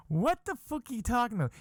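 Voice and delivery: indignant what. Retold or imitated. Indignant reply to wife.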